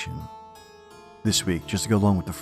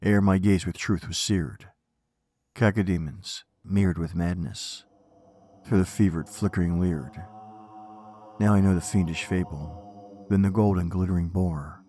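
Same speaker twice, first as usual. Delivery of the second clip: poem recitation. Acted. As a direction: recite it with dark gravity.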